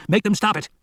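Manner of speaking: high, urgent demand; turning on Gutierrez, shouting in desperation; desperate shout. A narrator's reading. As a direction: order him to intervene. Pleading with Gutierrez amid flames.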